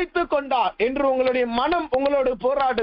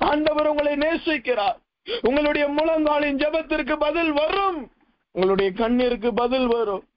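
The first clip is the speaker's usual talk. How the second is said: emphatic, raised sermon declarations; fervent preaching; 4 semitones higher than usual. Real, not acted. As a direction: proclaim each promise to the congregation. (உறுதியோடு முழங்கும் பிரசங்கம்)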